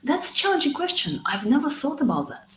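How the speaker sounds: high "challenging" falling away; natural reaction. Shown as a demonstration. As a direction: react naturally, thinking aloud. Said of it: "react to the question naturally".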